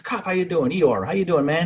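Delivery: lightly acted, high-pitched check-in; acted cheery greeting. Shipmates asking Eeyore how he's doing, high cheery greeting. Upbeat greeting before miserable reply.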